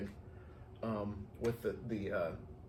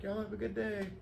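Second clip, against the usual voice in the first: higher, cheery goodbye; sweet farewell; 9 semitones higher, 4 dB quieter than usual. Retold or imitated. Florist to mom and little girl, high sweet farewell. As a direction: send them off sweetly.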